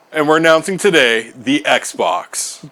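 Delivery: slow, grand presenter voice; announcer voice. Pretend. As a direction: announce it like a keynote. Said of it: "I really hope they just go".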